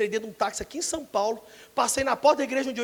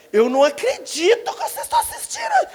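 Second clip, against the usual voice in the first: outraged mother; 13 semitones higher, 4 dB louder than usual. Retold or imitated. Mother scolding kids.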